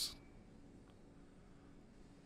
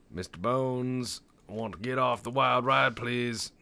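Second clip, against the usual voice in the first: pleading rider; 6 semitones higher, 7 dB louder than usual. Acted. Player playing passenger on his ride, high mock pleading. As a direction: call out like a hammed-up rider begging off.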